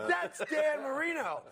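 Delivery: starstruck yell of the name; awed shout. Retold or imitated. Rookie shouting on seeing his idol, awed. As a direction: blurt the name out, awestruck.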